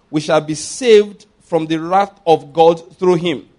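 slow, emphatic proclamation of scripture; scripture reading. Acted. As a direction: proclaim each phrase of the verse, unhurried. Reads scripture aloud to congregation.

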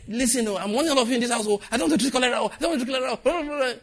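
high, shrill-pitched mock warning; parent warning household.

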